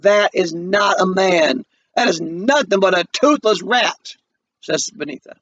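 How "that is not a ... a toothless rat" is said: scornful sister. Acted. Benita scorns her brother.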